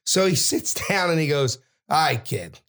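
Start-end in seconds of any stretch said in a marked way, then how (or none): 1.9-2.6 imitated New York tough guy; casual New York accent, pitch dropped; heavy New York accent. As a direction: do a New Yorker sizing up a kid. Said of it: "heavy New York accent".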